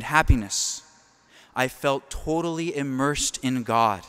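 impassioned scripture-style recitation; devotional reading. Acted. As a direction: read it like a prayer rising to ecstasy. Reads Faustina's diary.

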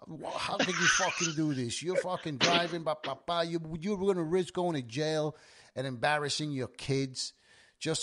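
a hint of an angry cop lecturing; cop tearing into him. Cop lecturing a pulled-over driver, mild scolding. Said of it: "tore into me".

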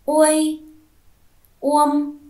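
uôi, uông read high and loud, each word apart; clear model reading. Shown as a demonstration. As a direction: say each rhyme loudly and clearly for the class. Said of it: "cô mời các con đọc vần". (đọc mẫu to, rõ ràng)

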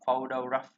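wrong "photographer", FOH-doh-graf-er with a full O; wrong pronunciation. Shown as a demonstration. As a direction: demonstrate the mistaken "photographer" stressed at the start. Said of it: "nó không phải là âm Âu như này nữa".

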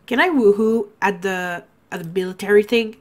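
stuffy blocked nose; talking through a stuffed-up nose; congested. Real, not acted. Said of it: "I sound so congested".

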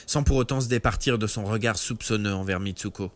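plain reading voice

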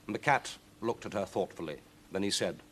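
ordinary delivery, nothing marked

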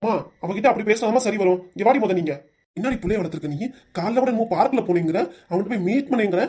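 heated husband berating his wife; accusing, moderately angry tirade; angry scolding. Acted. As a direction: scold with rising irritation. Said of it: "ஏன்டா இவ்வளவு கோபப்படுற?".

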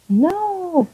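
loud, high drawn-out "no"; dramatic cry. Acted. Player voices a character under attack, dramatic cry. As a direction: wail it in mock despair, swooping up.

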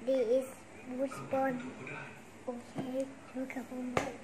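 low, quiet robot voice. Pretend. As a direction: speak like a little robot. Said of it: "ทำโรบอทดิ".

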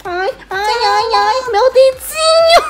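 high pained ai ai; stubbed toe. Real, not acted. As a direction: cry out over a hurt finger. Hurt finger, cries out.

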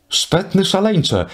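high, slow, disdainful exclamation; sneering, drawn-out insult; scornful cry. Acted. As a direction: look down on him and call it out slowly. Brangien scorns the disguised fool.

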